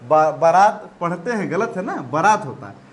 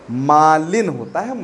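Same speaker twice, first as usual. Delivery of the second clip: मालिन said slowly, weight on मा; slow emphatic correction; slower than usual. Shown as a demonstration. Teacher repeating the right word for pupils, slowly. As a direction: lean on मालिन, drawn out. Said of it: "confusion होता है मलिन और मालिन में".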